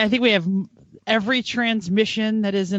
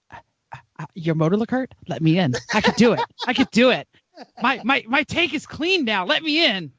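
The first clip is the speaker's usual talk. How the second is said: pleading car voice. Pretend. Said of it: "If the cars are talking".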